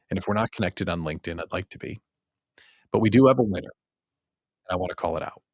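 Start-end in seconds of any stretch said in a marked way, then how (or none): 0.1-2.0 whispered aside. Real, not acted. Aside about LinkedIn.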